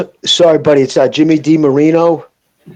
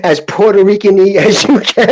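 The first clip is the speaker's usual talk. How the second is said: imitating the host; 4 semitones higher than usual. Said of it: "That's the way you said that".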